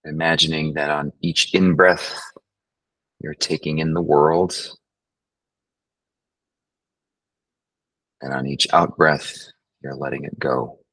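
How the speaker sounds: unhurried meditation guide, long pauses; guided meditation. Acted. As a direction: guide them gently through the breathing, leaving space. Leads a breathing meditation.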